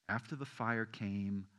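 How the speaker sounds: slow, soft unvoiced whisper. Shown as a demonstration. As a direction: make the church lean in to hear it. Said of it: "you don't hear a whisper".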